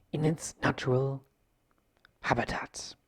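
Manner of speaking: whispered nature narration; whispered documentary aside. Acted. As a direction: whisper it like a wildlife filmmaker. Documentary hush.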